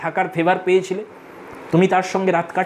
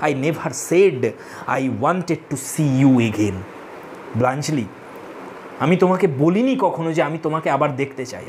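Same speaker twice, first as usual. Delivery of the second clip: lower-pitched, understated hurt voice; lightly acted sob, pitched down; mild mock sobbing; 7 semitones lower, slower than usual. Raina, deeply hurt, answers Bluntschli with an understated, low-pitched sob. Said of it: "সেইভাবে সে তখন বলছে ফুঁপিয়ে ফুঁপিয়ে".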